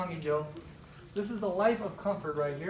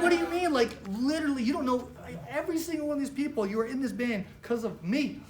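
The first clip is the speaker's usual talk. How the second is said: mock outrage; 5 semitones higher than usual. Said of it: "I didn't say that, but".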